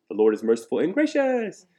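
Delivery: lightly imitated child, rising high on the last word; shrill little boy. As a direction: end in a piping little-kid lilt. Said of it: "with such a shrill little voice".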